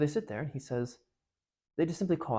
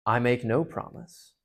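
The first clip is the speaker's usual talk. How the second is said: lion's heavy voice; 2 semitones lower, slower than usual. Acted. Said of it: "heavy, golden voice".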